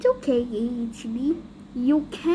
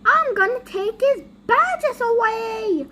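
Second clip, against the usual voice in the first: higher-pitched angry boss; angry threat; 6 semitones higher, 3 dB louder than usual. Acted. Boss threatening to take badges away, angry.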